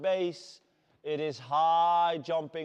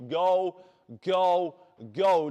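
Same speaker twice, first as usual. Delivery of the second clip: loud urgent coach shout; 8 dB louder, slower than usual. Real, not acted. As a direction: drive them on, full voice. Coach urging class in sprint.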